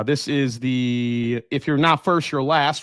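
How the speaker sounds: put-on failed stab at a Southern accent. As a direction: throw in a light, half-hearted Southern drawl. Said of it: "I just tried to throw a Southern accent in there".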